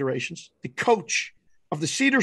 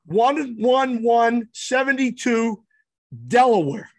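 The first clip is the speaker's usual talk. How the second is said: higher, raised calling of numbers; called signals; 4 semitones higher, slower than usual. Retold or imitated. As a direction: shout the code across the diamond. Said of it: "Next pitch he calls".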